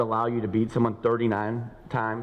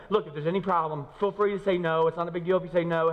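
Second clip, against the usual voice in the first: apologetic asker; 5 semitones higher than usual. Retold or imitated. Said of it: "You go".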